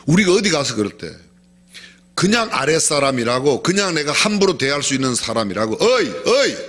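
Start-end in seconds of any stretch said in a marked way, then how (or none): 5.8-6.6 rude calling out. Shown as a demonstration. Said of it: "이렇게 부르는 거".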